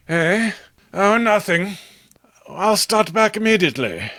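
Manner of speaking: lightly startled, brushing it off; distracted Robert. Robert answering John from his trance, lightly startled.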